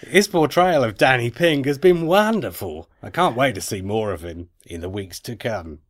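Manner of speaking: effortful, badly faked Aussie accent; Australian accent. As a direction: read the email in mock Australian. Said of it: "in an Australian accent".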